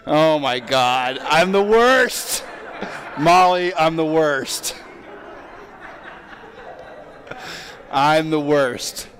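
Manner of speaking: real laughing self-reproach, drawn out; laughing at his own parenting fail; rueful laughing. Real, not acted.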